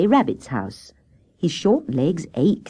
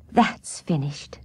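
weary relief; slower than usual. Acted. Tired after finishing the jam.

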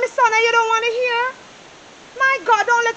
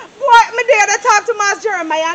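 louder, crying exclamation; tearful cry of joy; 5 dB louder than usual. Acted. Mother overwhelmed by her daughter's new job, crying out.

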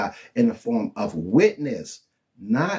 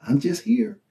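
higher, lazy idle shrug; idle god; 8 semitones higher than usual. Retold or imitated. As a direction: lounge on the words like a bored god. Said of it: "He ain't just like".

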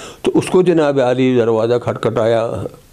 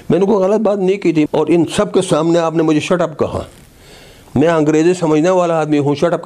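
indignant protest; 3 semitones higher than usual. Retold or imitated. Minister tells commissioner off for saying shut up, indignant.

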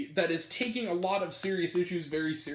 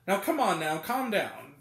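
lightly voiced easygoing dad soothing his kids; gentle, unhurried "now come on now"; mild calming dad. Father telling rowdy kids to settle, mildly soothing. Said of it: "literally that tone of voice".

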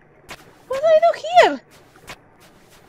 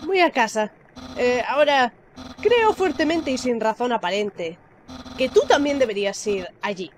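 lightly voiced skeleton friend. Voices Papyrus.

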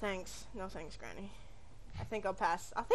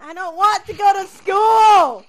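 whiny shout; 4 dB louder than usual. Acted. Kid refusing school, yelling.

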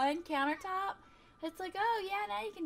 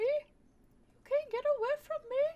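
slow, higher, louder spooky threat; menacing villain voice; 9 semitones higher, 5 dB louder than usual. Acted. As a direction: stretch it out like a movie stalker.

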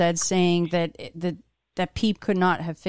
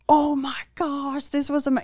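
amazed; 8 semitones higher than usual. Retold or imitated. Retelling amazed reaction.

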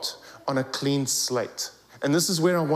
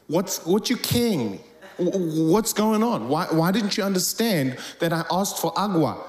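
mild mock exasperation; 2 semitones higher than usual. Speaker to a puzzled Spanish listener, mock exasperated. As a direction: act out a mildly exasperated protest. Acting out frustration at misunderstanding.

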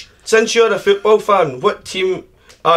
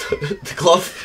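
laughing in a very high squeak; words squeezed out through giggles; squeaky laugh; 4 dB quieter than usual. Real, not acted. Laughing at smelly hand.

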